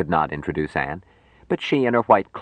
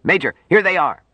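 much higher, loud call to the major; shouted call; 12 semitones higher, 5 dB louder than usual. A narrator's reading. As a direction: sing out to the officer behind you. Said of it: "He called out".

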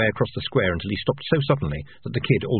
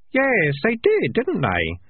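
put-on higher, young boy voice; kid voice; 13 semitones higher, much slower than usual. A narrator's reading. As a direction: voice the kid, up high.

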